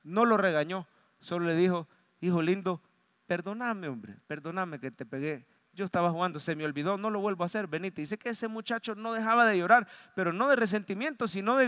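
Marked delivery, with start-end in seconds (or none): 2.2-8.0 tender apology. Retold or imitated. Father apologizes tenderly to son.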